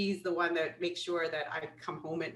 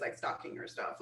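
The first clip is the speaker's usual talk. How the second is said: whispered like a creepy lurker; mock creepy whisper; 7 dB quieter than usual. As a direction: breathe it out like a secret stalker. Creepy lady acting out stalking.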